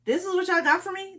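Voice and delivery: imitating a let-down bride; mock disbelief. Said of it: "she was like".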